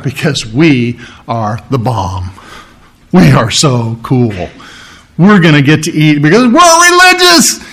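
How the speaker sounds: mock self-satisfied boast; lightly voiced proud Pharisee, slowed on the brags; smug bragging Pharisee. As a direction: puff yourself up, mocking. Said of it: "the one who said".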